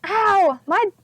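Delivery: high, slow moaning complaint; crying pirate. A narrator's reading. Stinky complaining about his back, high slow wail. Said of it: "Stinky cried".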